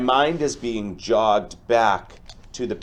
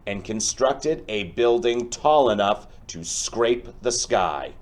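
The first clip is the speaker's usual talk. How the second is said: lively storybook read-aloud for a class; reading to children. Acted. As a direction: tell the tale to the kids with expression. Teacher reads picture book aloud.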